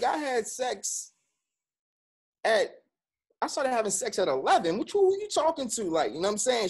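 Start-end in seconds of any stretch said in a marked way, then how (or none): 0.0-4.8 much higher, pushing back hard against mother; heated retort. Retold or imitated. Son arguing back at his mother, high and heated. 4.8-5.8 retold angry snap. Grown son confronting his mother, imitating an angry snap.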